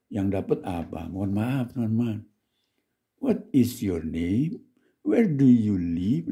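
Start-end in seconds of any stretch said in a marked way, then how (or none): 3.2-6.3 very slow, word by word; slow textbook English. Shown as a demonstration. Teacher mocking what the course taught, slowly. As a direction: recite it like a beginner's drill. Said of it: "begitu dapetnya".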